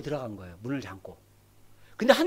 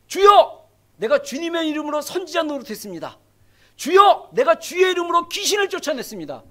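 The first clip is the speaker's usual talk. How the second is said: pleading cry; 3 semitones higher, 4 dB louder than usual. Acted. Many people pleading to Jesus.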